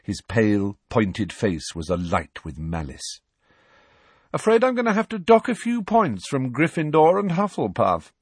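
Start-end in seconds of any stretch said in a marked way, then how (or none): 4.3-8.1 drawling Malfoy. Acted. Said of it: "he drawled".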